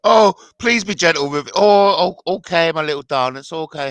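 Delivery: hammed-up cooing, pitched high and loud; mock soothing. Mocks the soothing exchange just played.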